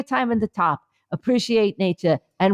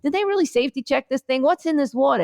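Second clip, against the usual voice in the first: mild mock worry; 6 semitones higher, faster than usual. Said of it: "And you're like".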